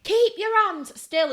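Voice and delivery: loud, high, slow telling-off; aggressive order. Retold or imitated. Daughter doing mum's nails, aggressive order. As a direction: order it sharply, stretching each word. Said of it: "Stop being so aggressive".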